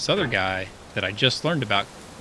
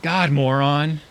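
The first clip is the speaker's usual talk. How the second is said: imitating his wife's loud, higher Swedish-accented "God, moron"; 6 semitones higher, 8 dB louder, slower than usual. Wife greeting him from out of bed, in a Swedish accent. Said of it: "she's like".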